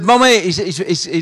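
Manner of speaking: put-on high, excited little boy calling his mum; child's voice. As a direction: play the seven-year-old bursting in from the garden. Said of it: "And he said". (petit garçon tout excité qui appelle sa maman)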